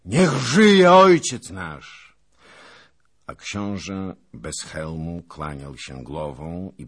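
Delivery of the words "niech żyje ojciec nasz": long, high shouted acclamation; roaring, slow, high-pitched cheer; crowd cheer. A narrator's reading. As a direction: hail the leader at full voice, drawn out.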